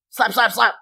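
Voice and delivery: high, loud, punchy repeated word; voiced slaps. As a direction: hit each word like a slap.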